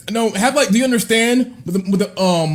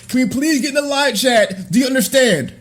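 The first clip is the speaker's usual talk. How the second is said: calling out; 3 semitones higher than usual. Real, not acted. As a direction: shout it out to your viewers. Calling out to his chat.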